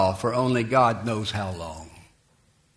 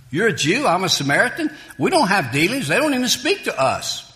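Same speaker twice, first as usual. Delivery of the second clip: indignant, raised voice pushing back; a woman's sharp retort, higher; retorting Samaritan woman; 7 semitones higher, 5 dB louder, faster than usual. Retold or imitated. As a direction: she throws it back at him, louder.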